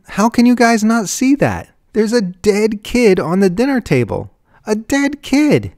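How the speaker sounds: high, loud, anguished plea; distraught and begging them to see; desperate wailing. A narrator's reading. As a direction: wail it, slowing down on the last words. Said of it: "wailed Susan".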